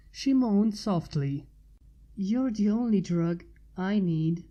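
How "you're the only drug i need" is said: panted. A narrator's reading. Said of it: "she panted".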